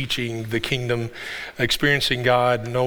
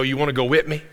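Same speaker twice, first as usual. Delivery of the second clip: light South Georgia country twang on "wanna go with me"; South Georgia accent; faster than usual. Shown as a demonstration. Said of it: "he's South Georgia ... they say it like that".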